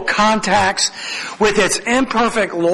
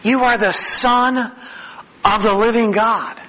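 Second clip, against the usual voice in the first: mildly incredulous Peter; 4 semitones higher than usual. Retold or imitated. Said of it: "incredulousness that you would even ask the question".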